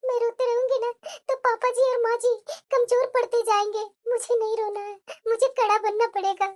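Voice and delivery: soft, quiet self-talk; quietly steel yourself, as if thinking aloud; hushed private resolve; inner monologue. Acted. Inner thoughts while alone.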